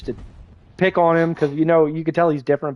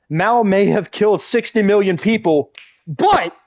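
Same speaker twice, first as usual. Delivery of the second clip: raised, hammed-up declaiming with punched BUT; mock apologist; 5 semitones higher, slower than usual. Acquaintance excusing Mao's killings, mock declaiming voice. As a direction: pretend to argue grandly, pitch lifted.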